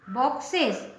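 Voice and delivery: बॉक्सेस as "box-ez", with an iz ending; teaching pronunciation. Shown as a demonstration. Teacher modelling the plural for pupils, carefully. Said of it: "इसलिए इसका उच्चारण भी इज".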